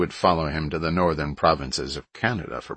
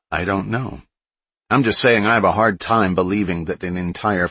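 louder, higher doubting bully; suspicious rude man; 3 semitones higher, 4 dB louder than usual. Acted. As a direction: push back, openly suspicious. Ryan, suspicious and pushy.

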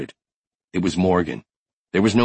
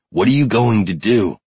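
raised, higher urgent question; alarmed demand; 4 semitones higher, 4 dB louder than usual. Acted. Finn on Brody's heels, alarmed raised question. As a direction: challenge him urgently.

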